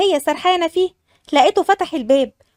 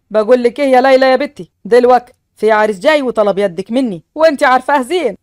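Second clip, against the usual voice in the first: put-on a lower man's voice for the old father; father's voice; 3 semitones lower, 3 dB louder than usual. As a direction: speak as a serious village father. Narrator voices Laila's father. (صوت الأب الجاد بنبرة أخفض)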